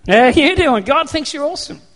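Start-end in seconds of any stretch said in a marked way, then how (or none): 0.1-0.8 low slow flirty wow; God charmed by you; God doing Joey. Retold or imitated. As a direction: drawl it like a smitten flirt. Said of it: "he looks at you and he goes".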